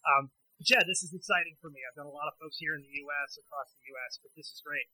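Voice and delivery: tinny voice on a bad phone line; tin can phone. Real, not acted. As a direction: sound like a poor cell connection. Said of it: "I'm gonna sound a little bit like I'm talking through a tin can or on a bad cell phone reception".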